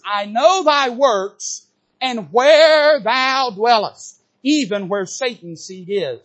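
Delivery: slow, solemn King James reading; scripture reading. Acted. Preacher reading the Lord's words to the church, slow and solemn. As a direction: read the verse slowly, with weight.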